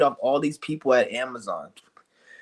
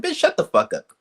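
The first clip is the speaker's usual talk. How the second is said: retold snap; 14 semitones higher than usual. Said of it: "And I'm like".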